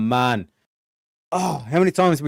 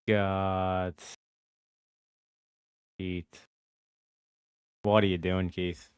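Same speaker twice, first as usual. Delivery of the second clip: quiet groaning disbelief; 6 semitones lower, 6 dB quieter, slower than usual. Real, not acted. Muttering in disbelief.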